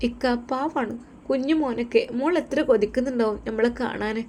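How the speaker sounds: a wife making a sincere promise; earnest young wife. Acted. Wife about the children.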